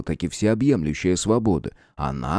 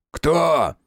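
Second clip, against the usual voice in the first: harsh croak; 6 semitones higher than usual. Acted. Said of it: "резким каркающим голосом спросил старшой".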